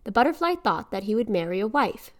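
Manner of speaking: put-on solemn old folktale narration; grave ancient myth telling. A narrator's reading. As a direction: tell it like an ancient legend. Reads Gaelic folktale aloud.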